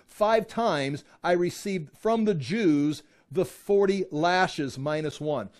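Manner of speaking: slow, weighty Bible reading; scripture reading. A narrator's reading. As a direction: space out the words with heavy emphasis. Reads scripture aloud.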